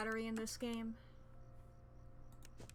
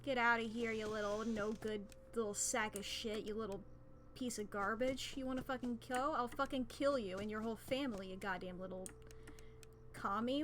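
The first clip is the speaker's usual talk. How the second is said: put-on old-timey New England insult voice; 1920s New England tough. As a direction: spit insults like a 1920s Yankee. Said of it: "possessed by the soul of, like, a nineteen twenties New England type".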